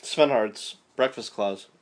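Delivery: talking through a mouthful; words round a bite of food; mouth full. Real, not acted. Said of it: "Sorry, I'm eating right now".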